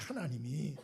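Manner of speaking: ordinary delivery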